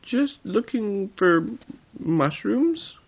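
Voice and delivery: high, loud, slow little goblin; drawn-out excuse in a small creature's voice. A narrator's reading. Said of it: "said Tuppenny".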